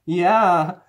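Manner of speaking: high, drawn-out nervous laugh and agreement; slow, high-pitched mock unease; scared girlfriend. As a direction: imitate an uneasy girlfriend humoring him. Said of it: "looks kind of scared".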